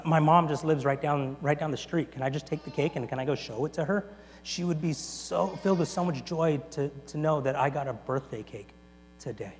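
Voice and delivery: soft, gentle pleading; tender request. Retold or imitated. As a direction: ask softly, moved by the gift. Agnes pleads to show her mother.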